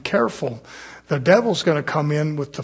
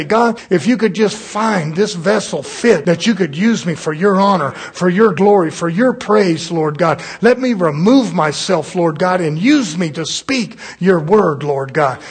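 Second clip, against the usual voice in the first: humble prayer; 3 semitones higher, 7 dB louder than usual. Retold or imitated. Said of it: "come to that revelation and say".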